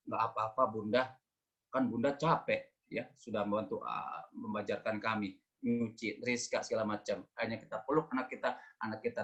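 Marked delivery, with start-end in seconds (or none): 0.1-7.2 low, soft reassurance; gentle forgiveness. Acted. Child forgiving a tired mother, soft and tender. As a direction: forgive softly, voice dropped low.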